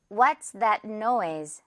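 What's that noise, slowly, noise ending in z; "What's that noise" slow and clear, z on noise; careful final z. Shown as a demonstration. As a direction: model What's that noise with a buzzed last sound. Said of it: "Z, 이 부분 주의하면서".

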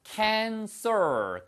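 "cancer" ending in an r-colored -er. Shown as a demonstration. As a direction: stress the r sound at the end of "cancer". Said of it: "얼 발음을 하시면은 암이란 뜻이고요".

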